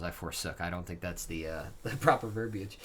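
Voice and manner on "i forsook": "I forsook" said softly, wryly doubting the wording; low skeptical echo of "I forsook"; quiet puzzled repeat. Shown as a demonstration. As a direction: mutter "I forsook" back as if questioning it. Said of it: "that's what it says".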